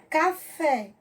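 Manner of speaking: "Café" split into ca, fé; syllable by syllable. Shown as a demonstration. Teacher showing pupils how to split words, syllable by syllable. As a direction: say "Café" as two separate syllables. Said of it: "separar as sílabas".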